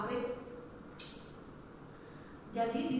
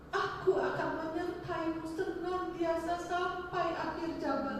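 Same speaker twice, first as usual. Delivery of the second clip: slow, higher-pitched imitation of God's voice; 4 semitones higher, 4 dB quieter than usual. God answering a praying believer in a boarding room, slow solemn voice. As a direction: speak as a divine promise, slowly and unhurried. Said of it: "ada suara".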